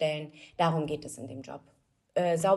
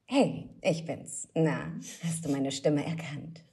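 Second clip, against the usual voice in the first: slow, lower-pitched dubbing voice; Tokio; 3 semitones lower, slower than usual. Shown as a demonstration. Dubbing actress performs her famous role for the host, slow character voice. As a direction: drawl it slowly, pitched a little down. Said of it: "Einfach einmal Tokio, wie sie leibt und lebt".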